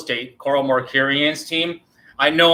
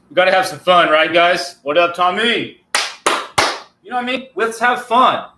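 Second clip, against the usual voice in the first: upbeat, higher, pumped voice; playful hype; 4 semitones higher than usual. Real, not acted. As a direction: hype up the viewers. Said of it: "I just wanted to have some fun with it".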